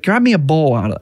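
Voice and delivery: lightly voiced commanding kid; a hint of a five-year-old giving orders; bossy little girl. Dad voicing his daughter bossing him around, a light kid voice.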